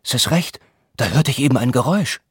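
lightly voiced theatrical Dionysos, fast at the end; recited stage voice. Herr August recites the frogs dialogue to the men, mildly theatrical. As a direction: ham up a startled god from a Greek comedy. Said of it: "sprach in unterschiedlichen Stimmlagen".

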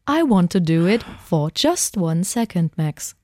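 slow sad robot voice; a heartbroken robot, stiffly. Pretend. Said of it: "der Roboter in mir".

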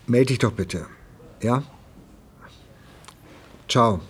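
voicemail message. Acted. Leaving a voicemail for ex-wife.

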